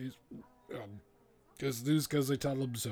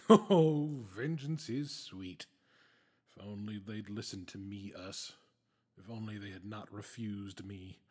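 villainous gloating; 5 semitones lower than usual. Acted.

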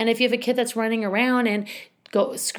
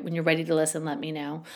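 calm one-liner; 2 semitones lower, 3 dB quieter than usual. Shown as a demonstration. Teacher to upset student, calm and even. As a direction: say it evenly and quietly, no heat. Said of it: "one of the things I do".

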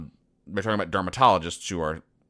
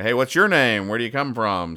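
eager questioning; 4 semitones higher, 5 dB louder than usual. Acted. Comic characters question a newcomer.

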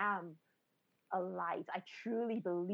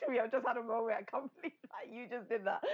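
laughing; 4 semitones higher than usual. Real, not acted. Overwhelmed laughing reaction.

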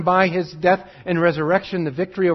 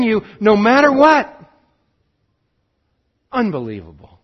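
rising, louder preaching build; impassioned preaching; 7 semitones higher, 6 dB louder than usual. Acted. Preacher urging his congregation, in impassioned full voice. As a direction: preach it out with growing fervour.

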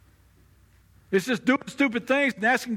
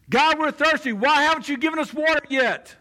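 raised, louder taunting complaint at God; 4 semitones higher, 3 dB louder than usual. Acted. Israelites taunting God in the desert, louder and higher. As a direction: throw it at God like an accusation. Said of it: "but in a taunting way".

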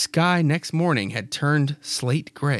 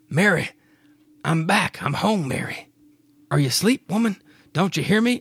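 calling out; 5 semitones higher than usual. Acted. Clyde calling for Mary.

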